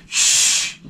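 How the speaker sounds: whispered shush. Retold or imitated. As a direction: hush the kid in a whisper. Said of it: "the parents would turn around and go".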